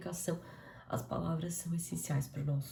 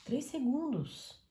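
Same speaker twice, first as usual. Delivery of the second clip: self-restraint; 2 semitones higher than usual. Retold or imitated. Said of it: "Pensar um pouquinho antes".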